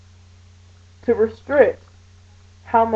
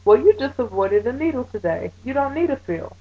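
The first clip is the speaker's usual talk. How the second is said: imitating the nurse; 6 semitones higher than usual. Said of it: "she looks at me and says".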